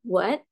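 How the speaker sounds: "what" rising like a question; second tone. Shown as a demonstration. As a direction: lift the pitch through "what". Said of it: "nada dua".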